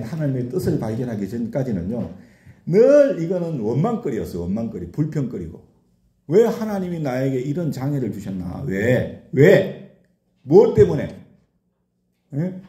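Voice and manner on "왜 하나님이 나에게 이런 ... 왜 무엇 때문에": retold grumbling. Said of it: "입에서 그냥 원망밖에 안 나오네".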